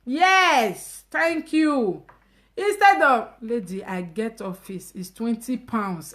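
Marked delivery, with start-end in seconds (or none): 3.4-6.1 quoting the lady. Retold or imitated. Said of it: "that's my creative lady talking".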